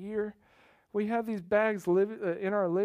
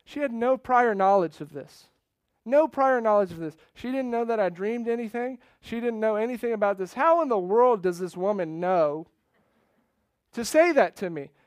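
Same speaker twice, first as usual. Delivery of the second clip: loud, incredulous preaching; emphatic amazement; 2 semitones higher, 7 dB louder than usual. Real, not acted. Preacher telling church she knew nothing of the dream, loudly amazed. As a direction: drive it home with mounting disbelief. Preacher marvels at her knowledge.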